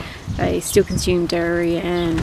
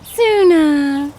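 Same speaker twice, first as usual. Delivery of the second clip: higher, louder call of a name; 8 semitones higher, 5 dB louder than usual. Real, not acted. Owner calling her duck Suna, louder and higher. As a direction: call her over across the yard.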